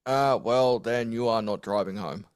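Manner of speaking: put-on hammy Australian Irish accent; bad Irish accent. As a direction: fake Irish accent, lightly done. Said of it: "that bad Irish accent".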